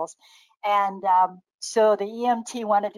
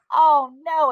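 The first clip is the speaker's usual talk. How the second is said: higher, louder cry of dismay; retold alarm; 7 semitones higher, 7 dB louder than usual. Sister hearing the alpacas got out, retold alarm. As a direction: act out sudden alarm.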